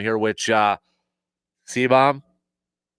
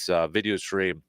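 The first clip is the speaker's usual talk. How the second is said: ordinary talk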